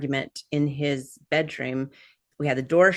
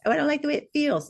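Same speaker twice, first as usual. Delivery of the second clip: whiny complaint; 11 semitones higher, much faster than usual. Retold or imitated. Mocking a complaining grounding skeptic.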